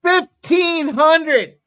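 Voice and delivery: stretched slow, savoring each word; slow drawn out. Real, not acted. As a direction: drag it out slowly for effect. Savoring the win amount.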